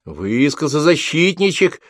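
high, slow sneering cry; mocking shout. A narrator's reading. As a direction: sneer at the defender. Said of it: "выкрикнула девушка". (насмешливый выкрик девушки)

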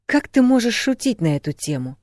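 high-pitched cross reproach; indignant scolding. A narrator's reading. Woman thumping his shoulder, scolding crossly. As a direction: scold him for joking. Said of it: "потом сердито стукнула его".

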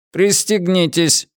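high, even ship-computer announcement; metallic robot voice. Acted. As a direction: speak like a cold onboard computer. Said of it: "произнёс металлический голос". (металлический голос бортового компьютера)

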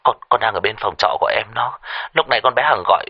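faltering, anxious report; stammering. Acted. Son telling father his sister is possessed, stammering. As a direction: stumble and repeat words as you explain. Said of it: "Thằng Long lắp bắp".

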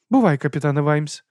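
high, hearty aristocratic lady; lady's voice. A narrator's reading. Lady explains dragon stomachs to Vimes. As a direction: lift the voice for the lady.

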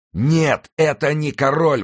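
high, loud cry of denial; exclaiming. A narrator's reading. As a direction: cry out to correct the soldiers. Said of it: "воскликнул всадник". (громкое восклицание)

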